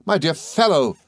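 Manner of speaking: high, effusive Traddles-like gentleman, overjoyed; excitable friend. A narrator's reading. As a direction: greet a dear friend with delight.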